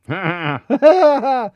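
a reversed, warped laugh; backwards laugh. Acted. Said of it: "That's backwards laughing".

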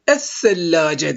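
"es-sellace" with a doubled lisped th sound; silent lam, doubled se. Shown as a demonstration. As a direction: hold the th at the join of "es-sellace", no L in the article. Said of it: "Lam okunmuyor".

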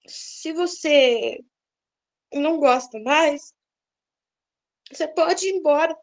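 slow, gentle and unhurried, at peace; peaceful, calm. Retold or imitated. Wife calmly telling her husband he may leave, slow and peaceful. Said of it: "falei isso com tanta paz no coração".

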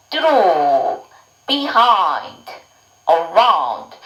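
teacher modelling each word separately; practice model. Shown as a demonstration. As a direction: say each word distinctly, pausing for learners to repeat. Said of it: "저랑 같이 한번 연습해봐요". (따라 하도록 한 단어씩 또박또박)

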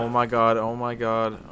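scared horror game streamer, loud panic; frantic gasping panic while being chased; panicked. Real, not acted.

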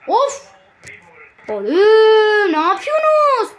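slow, drawn-out wail of a yell at his useless players; anguished yell. Real, not acted. Gamer wailing at his own team, anguished shout. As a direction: howl it out, half crying in despair.

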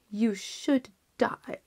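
whispered, slow final verdict; cold king. Acted. King's verdict.

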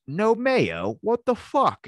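high, loud mock outrage; hammed-up angry movie hero; outraged yell. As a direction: spit it out disgusted. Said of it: "he goes".

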